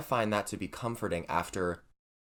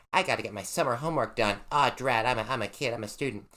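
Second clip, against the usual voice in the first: student voice. Pretend. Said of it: "that's my student voice".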